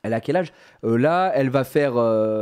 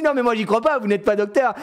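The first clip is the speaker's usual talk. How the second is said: mock disbelief; 10 semitones higher than usual. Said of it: "Je dis".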